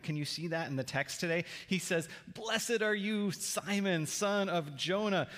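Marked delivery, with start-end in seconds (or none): 2.3-5.3 higher, slower, lit up with delight; giddy excitement. Retold or imitated. Pastor voicing Jesus delighted with Peter, giddy and slow. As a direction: let the joy lift the blessing. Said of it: "Jesus almost gets giddy with excitement".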